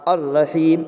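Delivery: "الرحیم" said ar-raheem, doubled r; silent lam. Shown as a demonstration. Teacher giving an example, "الرحیم" with silent lam. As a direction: drop the L in "الرحیم" and hold the R. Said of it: "مگر لام کا تلفظ نہیں ہوگا".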